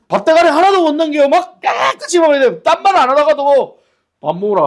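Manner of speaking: high, loud, half-laughing insistence; loud emphatic preaching. Acted. Preacher telling the congregation about strict fathers, loud and high. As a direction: belt it out with comic exaggeration.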